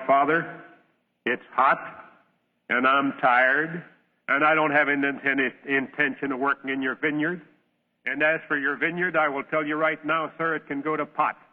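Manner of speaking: put-on a sulky boy talking back to his father; churlish refusal. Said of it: "right churlish of spirit".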